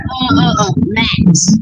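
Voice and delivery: imitating a stalling, caught-out friend; hesitant filler, then the name dropped out; stuck for an answer. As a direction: stammer while hunting for a made-up name. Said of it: "And she got stuck".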